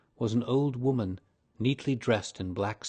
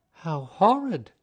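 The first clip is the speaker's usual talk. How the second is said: loud, slow, shocked cry; horrified cry; 8 semitones higher, 8 dB louder, slower than usual. A narrator's reading. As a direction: recoil from the words with a loud gasp of disgust. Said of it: "cried Missus Otis".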